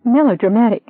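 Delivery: high, loud shrieked echo of "Melodramatic?". Acted. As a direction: shriek the word back at him. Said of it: "She cut him off with a shriek".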